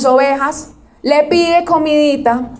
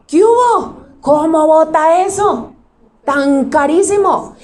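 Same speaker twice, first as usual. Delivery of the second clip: scolding disciples; 3 semitones higher, slower than usual. Acted. Disciples scold the woman, acted.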